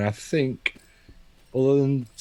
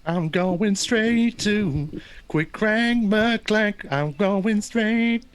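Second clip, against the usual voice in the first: excited; 8 semitones higher, much slower than usual. Pretend. Hyping the villain's entrance.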